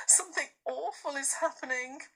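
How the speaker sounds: hushed, scared whisper; fearful whispered warning; frightened whisper. A narrator's reading. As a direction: breathe it out in dread. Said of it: "said Susan".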